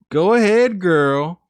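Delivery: loud, high cheer; cheering friends. Retold or imitated. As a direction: hype her up like a friend.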